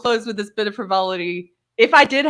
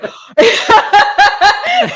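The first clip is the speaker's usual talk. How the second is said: high-pitched recognition laugh; 9 dB louder than usual. Retold or imitated.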